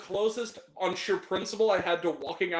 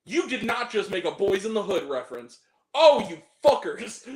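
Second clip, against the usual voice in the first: disbelieving outrage; 4 dB louder than usual. Retold or imitated. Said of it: "And I was just like".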